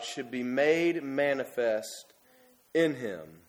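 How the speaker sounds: slow, measured scripture reading. Acted. Preacher reads the words of Jesus to the congregation, slow and solemn. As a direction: read each word of Jesus slowly and solemnly.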